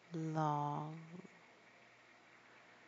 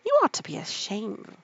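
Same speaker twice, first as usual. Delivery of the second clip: reproachful Griffin; 4 dB louder than usual. Acted. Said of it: "added the Griffin".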